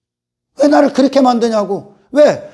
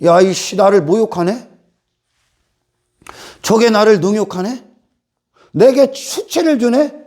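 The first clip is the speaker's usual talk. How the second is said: offended retort; 4 semitones lower than usual. Retold or imitated. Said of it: "그걸 욕으로 받아들이".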